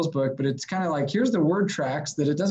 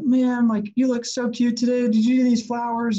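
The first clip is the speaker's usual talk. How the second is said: higher-pitched sweet-talk, lightly put on; gently gushing, in a raised pitch; soft grandson; 8 semitones higher, 4 dB louder than usual. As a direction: imitate a doting grandson buttering up an old lady. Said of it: "I kinda just really soft".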